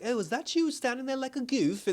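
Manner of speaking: high, amused imitation of a teasing guard; retold jeer, pitched well up; mock teasing. Security guard teases a man seen on the tapes, mock teasing. Guard mocks him in retelling.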